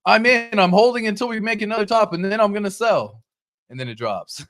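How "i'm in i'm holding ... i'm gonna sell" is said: much higher and louder, cocky; overconfident investor. Retold or imitated. Greedy investor vowing to sell at the top, high and loud. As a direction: go all in, pitched high and loud. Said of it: "You're like".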